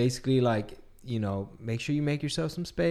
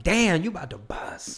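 grocery store lady; 6 semitones higher, slower than usual. Retold or imitated. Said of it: "'cause they'd be like".

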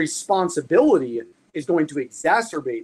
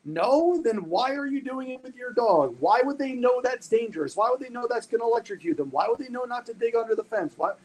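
higher, pressing questions; indignant rhetorical questions; 5 semitones higher than usual. Real, not acted. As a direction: push each why at the listener. Rhetorical challenge.

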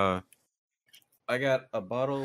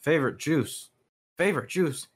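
mock outrage; 6 semitones higher than usual.

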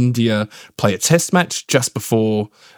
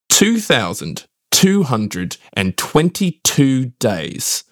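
Richie Benaud voice; much slower than usual. Retold or imitated. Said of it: "dust off my Richie Benaud impression".

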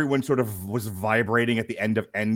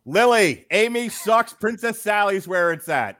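higher and louder, called out to someone away; calling to daughter; 8 semitones higher, 5 dB louder than usual. Acted. Dad relaying the co-host's jab to his daughter, called out louder. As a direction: pass the message on, called across the room.

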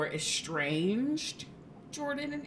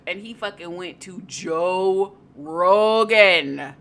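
indignant; 2 semitones lower, 8 dB louder, slower than usual. Real, not acted. Indignant rant about Rogers.

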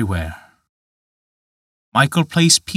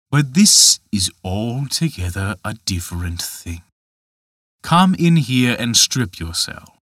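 a lightly voiced giant gently mocking; understated tempter, reasoning with the boy; Dutch Michael, coaxing. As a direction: coax him like a sly tempter.

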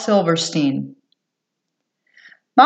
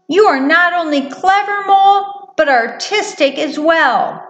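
high, admiring mouse voice; delighted little mouse; 9 semitones higher than usual. Acted. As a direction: praise a friend as a little mouse. Mouse praises Mole in delight.

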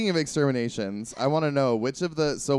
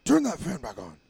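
put-on old man voice; 4 semitones higher, 3 dB louder than usual. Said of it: "this older gentleman going".

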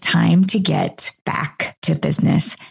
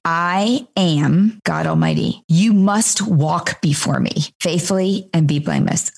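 a hint of a firm God; voicing God. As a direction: speak as God laying down the requirement. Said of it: "I almost want to imagine that God is saying".

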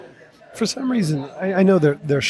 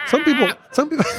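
high squeaky dolphin squeal into laughter; chirpy clicking dolphin; 12 semitones higher, faster than usual. Pretend. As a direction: squeal like a dolphin, then crack up. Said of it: "the worst dolphin impression I've ever heard".

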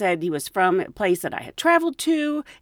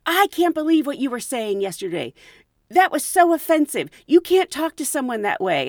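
imitating angry rant; 5 semitones higher than usual. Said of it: "this guy just went off on me".

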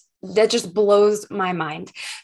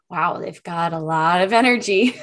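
excited wow demo; 2 semitones lower than usual. Shown as a demonstration. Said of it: "they're really excited".

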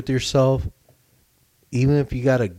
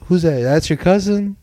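rising higher, confused questions; mock confused partygoer; 5 semitones higher than usual. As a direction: play the baffled guest. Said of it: "Like, like".

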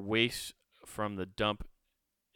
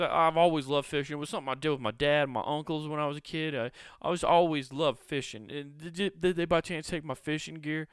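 lightly pitched-up fake nostalgia; casually fish for info, voice a bit raised; faking casual; 4 semitones higher than usual. Prisoner casually asking guards about his rod, mock innocent. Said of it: "trying to play it".

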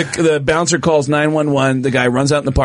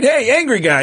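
raised-pitch call across a room; 9 semitones higher than usual. Retold or imitated. Comic checks on angry guy in crowd, calling out. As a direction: hail the heckler from the stage.

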